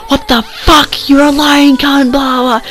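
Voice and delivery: very high, drawn-out mocking voice; mocked angry girl. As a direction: mimic her outrage way up high, slowly. Mocks the angry texter.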